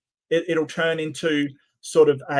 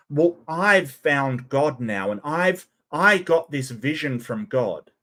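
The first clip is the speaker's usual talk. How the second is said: mock pastor; 3 semitones lower than usual. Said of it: "what kind of an apology has this".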